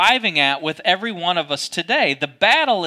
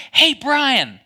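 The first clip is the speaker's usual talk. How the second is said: lightly voiced cheerful call, higher pitch; untroubled father-in-law; 8 semitones higher, 4 dB louder than usual. Father-in-law calling his angry son-in-law, untroubled higher voice. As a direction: call out in a higher voice, not upset. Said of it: "he's not upset by any of this".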